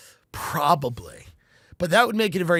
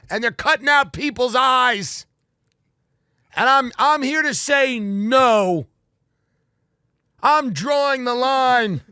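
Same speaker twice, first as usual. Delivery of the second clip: loud, slow, furious town-meeting tirade; a resident ranting at the meeting; mock angry rant; 7 semitones higher, 5 dB louder, slower than usual. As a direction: pound out every word at the crowd. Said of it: "I'm mad. I'm angry".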